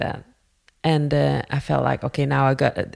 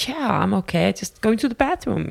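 higher-pitched false reassurance; retold brush-off; 6 semitones higher than usual. Fleeing student to a worried man, high retold brush-off.

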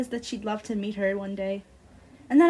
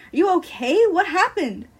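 anxious concern; 7 semitones higher, 8 dB louder than usual. Acted. Friend asks upset narrator.

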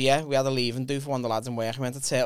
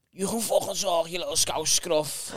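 mock scouse put-down; 3 semitones higher, slower than usual. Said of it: "this babe was just like".

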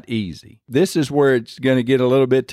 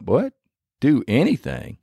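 higher, rising disbelieving question; incredulous God; 4 semitones higher than usual. Acted. Preacher voicing God answering a doubting father, incredulous. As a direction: echo it back with a raised eyebrow, mock-incredulous. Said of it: "I kinda see God with his eyebrow up".

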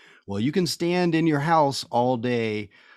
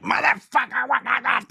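much higher, louder mock rant of a homeless woman; imitating angry yelling; 13 semitones higher, 3 dB louder than usual. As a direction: bark it out like the feared street lady. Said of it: "she'd be like".

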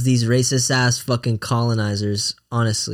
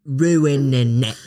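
mock British accent; much slower than usual. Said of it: "why do British people sound like".

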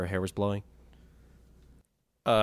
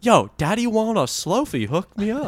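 very high, slow hammed-up demand; brash customer; 11 semitones higher than usual. Customer demanding a slowfie at the Apple store, hammed-up high voice. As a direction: swagger up high and drawn out. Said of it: "I walk in the Apple store".

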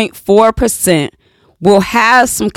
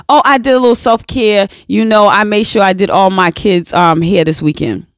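breezy casual person; faster than usual. Retold or imitated. Mocking people who call chores self-care, breezy fast. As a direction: toss it off like it's nothing. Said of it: "I have heard people say".

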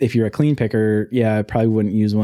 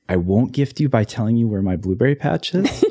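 laughing. Real, not acted. Teasing about the secret patch.

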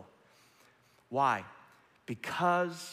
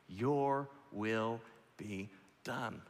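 slow, soft yielding of the will; surrendered prayer; 4 dB quieter, much slower than usual. Acted. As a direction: let go, slowly and softly.

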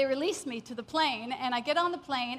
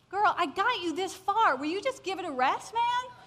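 higher, chiding retold voice; mock scolding; 5 semitones higher than usual. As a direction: chide her playfully, pitch up. Holy Spirit scolds her in story.

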